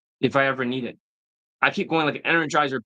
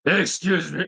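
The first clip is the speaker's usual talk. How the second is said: mock Satan voice, imitating a student; talking like Satan; 3 semitones higher, slower than usual. Coach showing how student sounds to women, mock-Satanic. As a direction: put on a demonic student's voice. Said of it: "He sounds like he's talking like Satan".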